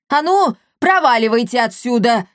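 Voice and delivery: loud angry chasing-off. Acted. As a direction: shoo the kids away in anger. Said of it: "разозлился Капотун". (злобно прогнать)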